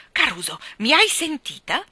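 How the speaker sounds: big voice with a note of consternation; dismayed. Acted. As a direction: call out in mild alarm. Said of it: "una nota di costernazione nel suo vocione".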